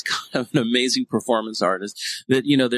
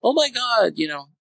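much higher, gushing mock fan; mock starstruck gush; 4 semitones higher than usual. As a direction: play a starstruck fan gushing over a celebrity.

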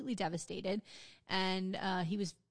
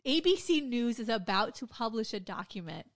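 louder, deliberate delivery building on the number; outraged confrontation; 4 dB louder, slower than usual. Retold or imitated. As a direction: confront him with the damning news, retold. Retelling a staffer's outraged confrontation.

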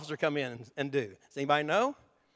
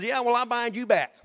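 mocking devil retort; 4 semitones higher, 4 dB louder than usual. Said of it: "He says".

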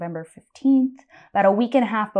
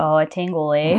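Canadian accent; 2 semitones lower, 3 dB louder than usual. Shown as a demonstration. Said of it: "Can you say tingle with, like, a Canadian accent?".

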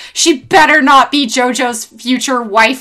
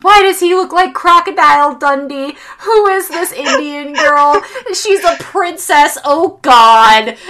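higher, louder baffled rant; lightly acted bewildered outburst, higher; exasperated disbelief; 4 semitones higher, 3 dB louder than usual. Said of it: "And I'm like".

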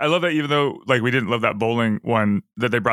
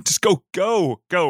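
imitated impatient order, pitched up; retold yell at no great volume; mock yell; 7 semitones higher, slower than usual. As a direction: wave someone on with a raised, higher voice. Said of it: "he yells it".

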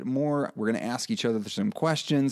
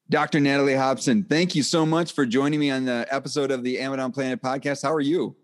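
radio voice; 2 semitones higher than usual. Real, not acted. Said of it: "my radio voice coming out full, full force".

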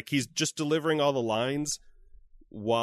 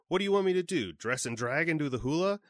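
high-pitched hammy Timon line; quoting Timon's line; 6 semitones higher than usual. Retold or imitated. Retelling the original film's line, hammy and high. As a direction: ham it up like the cartoon meerkat. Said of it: "he does the line".

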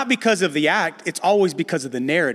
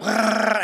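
mock growl; 4 semitones higher than usual. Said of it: "I'm just gonna be like".

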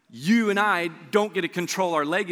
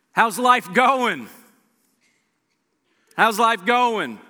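slow caring question; 6 semitones higher, 7 dB louder, much slower than usual. Acted. Jesus asking Peter, drawn out.

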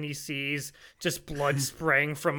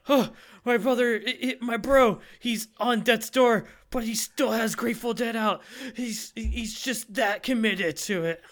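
deeply touched; 6 semitones higher than usual. Retold or imitated. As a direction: act out awe at a brother's devotion. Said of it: "Pesci is so touched".

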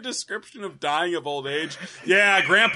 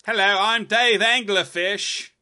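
slow, louder pompous fish introduction; mock fish voice; 3 semitones higher, 5 dB louder, slower than usual. Co-host answers the fish joke in a slow, louder grand voice. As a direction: draw out a grand fish name.

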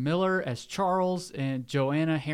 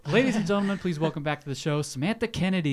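raised, ringing guest introduction; show announcer introduction; 2 semitones higher, faster than usual. Real, not acted.

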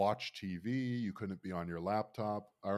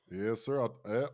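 fake Southern accent; 4 dB louder than usual. Alarm operator calling farm owners, light fake Southern accent. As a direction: put on a rusty, folksy Southern accent. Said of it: "doing a fake Southern accent".

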